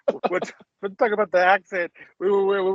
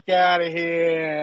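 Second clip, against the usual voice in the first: slow drawn-out New York dismissal; lazy New York brush-off; New York accent; 2 semitones lower, much slower than usual. Retold or imitated. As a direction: stretch it like a fed-up New Yorker. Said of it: "With the New York accent".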